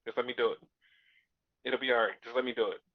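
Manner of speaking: lightly voiced, hushed begging; soft pleading. Christian asking Hangman for the contract, softly pleading. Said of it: "And Christian's like".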